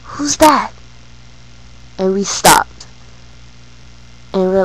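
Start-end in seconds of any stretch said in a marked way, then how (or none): 0.0-0.7 confused grandma. Retold or imitated. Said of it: "looks at us and says".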